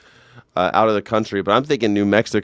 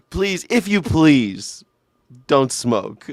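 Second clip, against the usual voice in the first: overly polite French; 3 dB louder, much slower than usual. Retold or imitated. Host translating the French sign, exaggeratedly polite. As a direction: draw out the pleases with mock courtesy. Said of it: "it was the French that was like".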